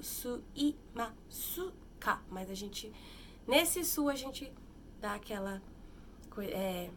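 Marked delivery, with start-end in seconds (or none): 0.0-2.2 spelled out slowly. Shown as a demonstration. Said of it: "vai tá escrito".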